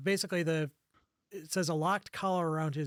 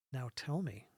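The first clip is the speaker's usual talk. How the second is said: low-key, softer countess's demand; very quiet voice; 3 semitones lower, 5 dB quieter than usual. Acted. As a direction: say it very quietly, a touch lower. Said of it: "say very quietly".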